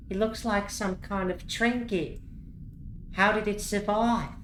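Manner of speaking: study the trinket closely; puzzled goblin Chumana. Acted. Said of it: "Chumana says".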